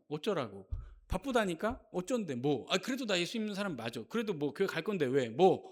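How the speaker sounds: mock shameless, shrugging retort; brazen. Believer making excuses to their conscience, brazen. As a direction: toss off short, brazen comebacks, lightly acted. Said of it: "하고 대단히 뻔뻔해집니다".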